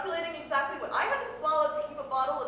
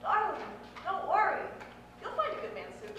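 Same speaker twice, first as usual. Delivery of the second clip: higher-pitched, reassuring fortune-teller; psychic's voice; 4 semitones higher than usual. Acted. Psychic to client who paid twenty dollars, reassuring. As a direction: play the psychic soothing a paying client. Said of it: "she said".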